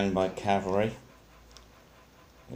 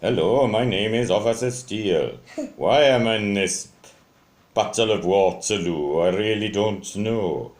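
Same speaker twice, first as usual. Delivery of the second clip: louder, swooping voice for a toy policeman; Officer Steele, wrong voice; 3 semitones higher, 6 dB louder than usual. Shown as a demonstration. Toy officer introduces himself at Waterloo, in a mistaken put-on voice. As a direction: introduce yourself emphatically, in a bouncy put-on voice. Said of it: "I don't talk like that".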